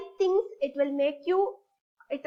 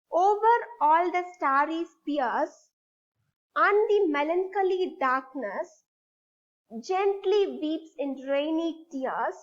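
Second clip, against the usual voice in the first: poem recitation. Shown as a demonstration. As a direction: read it once more, steady and even. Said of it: "Shall we read it again?".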